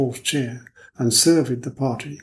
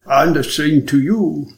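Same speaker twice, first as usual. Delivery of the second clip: careful English; 3 semitones higher, 5 dB louder, slower than usual. Acted. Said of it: "said Hanaud in his best English".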